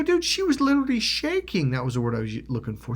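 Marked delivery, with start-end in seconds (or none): 0.0-1.7 high-pitched, appalled reproach; indignant scolding. Retold or imitated. Telling his friend how scared she was, indignant. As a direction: push the voice high in protest. Confronts friend over the prank.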